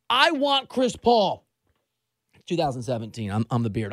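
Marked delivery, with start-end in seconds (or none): 0.1-1.4 imitating Harden. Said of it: "We've been there".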